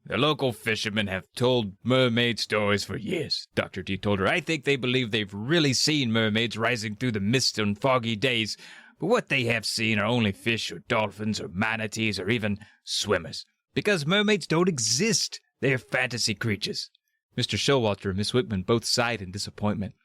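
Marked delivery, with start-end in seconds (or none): 0.0-3.5 loose put-on Scottish accent; Sean Connery. Doctor D answering Miss Wickerman, attempted Scottish accent. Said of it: "in his best Sean Connery accent". 4.3-16.9 put-on Scottish accent, explanatory; Sean Connery. Doctor D debunking mermaid sightings, attempted Scottish accent. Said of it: "in his best Sean Connery accent".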